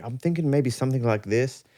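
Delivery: put-on light German accent, quoting a producer; a hint of a German accent. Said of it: "doing a German accent?".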